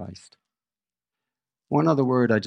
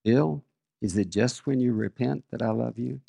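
very calm. Retold or imitated. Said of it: "he said very calmly".

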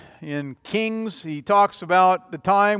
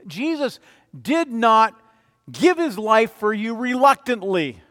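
slowed, stressed "did not" with a higher lift; emphatic; 4 semitones higher, 4 dB louder than usual. Shown as a demonstration. Pastor insisting to the congregation, emphatic stress. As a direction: lean hard on "not" and "reluctantly". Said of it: "I want to be emphatic".

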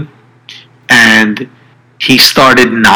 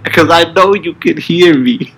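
through gritted teeth; 7 semitones higher than usual. Retold or imitated. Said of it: "he's screaming this into his cell phone".

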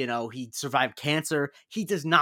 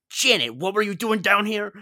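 higher-pitched bad actor impression; mock movie-star voice, raised in pitch; Michael Douglas; 6 semitones higher, 4 dB louder than usual. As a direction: imitate a leading man, pitched up. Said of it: "stop doing impressions".

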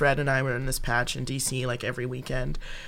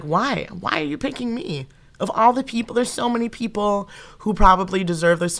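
high, tearful half-mock sob-talk; retold bawling; 5 semitones higher than usual. Told she's getting the stage, a mock tearful plea. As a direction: plead through imitated tears. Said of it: "And I just started bawling".

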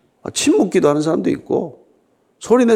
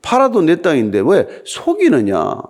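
mildly incredulous quoted scolding, pitched up at first; dumbfounded rebuke; 3 semitones higher than usual. Retold or imitated. Preacher voices Peter confronting Ananias, mildly dumbfounded. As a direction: act out a baffled, reproachful question. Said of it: "어이없어서 하는 말입니다".

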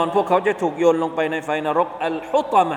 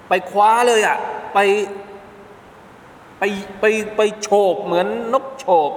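vivid snatching; 5 semitones higher than usual. Acted. Evoking hell snatching people.

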